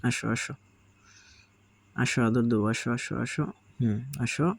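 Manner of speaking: cooing at a sulky parrot chick; coaxing pet talk. Real, not acted. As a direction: sweet-talk the sulking bird onto your hand. Coaxing pet bird Piku.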